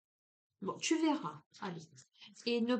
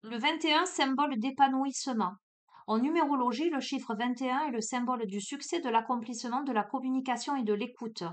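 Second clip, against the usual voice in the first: reading card text. Acted. Reads card meaning text aloud.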